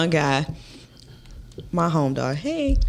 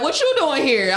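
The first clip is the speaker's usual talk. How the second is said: the lizards' "What you doing here?" in a higher, odd voice; lizards asking; 6 semitones higher than usual. Retold or imitated. Lizards at the pool questioning her, in a higher odd voice. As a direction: voice a nosy lizard challenging her.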